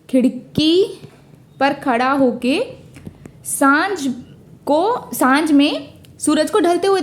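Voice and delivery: "खिड़की" set apart, then "पर खड़ा होके" drawn out slowly; slow, spaced repeat. Shown as a demonstration. Teacher repeats the mnemonic slowly so students catch it. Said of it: "कि तूने".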